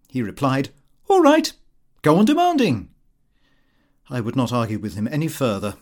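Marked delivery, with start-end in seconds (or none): 1.1-2.9 insolent clerk. Acted. Insolent young clerk retorts.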